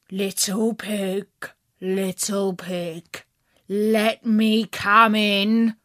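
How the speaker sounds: slow, coaxing wolf; sweet-talking wolf at the door; big bad wolf voice. Wolf asks to enter.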